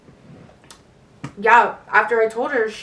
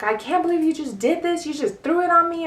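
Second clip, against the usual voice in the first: high-pitched retold disbelief; shocked mom; 7 semitones higher than usual. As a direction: imitate a mother caught off guard.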